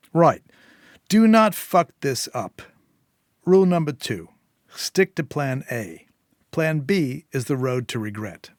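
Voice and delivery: firm Eddie. Acted. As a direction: bark out the rules like a boss.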